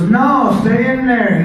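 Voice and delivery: loud, high no; shouted refusal. Retold or imitated. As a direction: shout him back into the ring. Partner refuses again.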